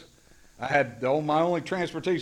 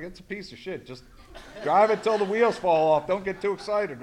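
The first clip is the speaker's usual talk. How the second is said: laughing, louder when saying it; laughing dismissal; 4 semitones higher, 3 dB louder than usual. Retold or imitated. Handing the beat-up car to newcomers, laughing offhand. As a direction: chuckle it off as you hand over the keys.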